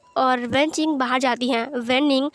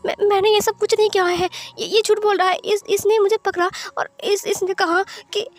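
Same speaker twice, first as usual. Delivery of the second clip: wife cries out to husband that the accuser lies, higher and upset; upset denial; 5 semitones higher than usual. Acted. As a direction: defend yourself against a lie, voice climbing. Accused, denies lying desperately.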